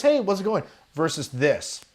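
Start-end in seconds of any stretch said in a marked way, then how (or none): 0.0-0.6 not squared up. Shown as a demonstration. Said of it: "If I go like this".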